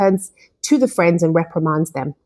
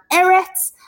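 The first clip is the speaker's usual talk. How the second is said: retold bitter cry, pitched high without shouting; higher-pitched appeal, a touch of bitterness; bitter outcry; 4 semitones higher than usual. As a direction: cry out in mild, imitated bitterness. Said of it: "hear the bitterness as he screams out".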